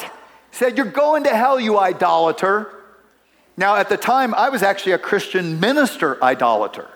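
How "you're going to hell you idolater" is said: imitated street heckler, starting high; mild mock shout, dropping on the insult; mock yell. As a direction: retell the accusing yell at modest volume. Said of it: "he looks right at me and he yells".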